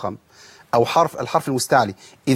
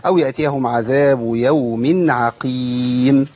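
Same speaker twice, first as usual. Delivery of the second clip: slow chanted tajweed; Quran recitation; 3 semitones lower, much slower than usual. Shown as a demonstration. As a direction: recite slowly with long vowels. Teacher recites verse.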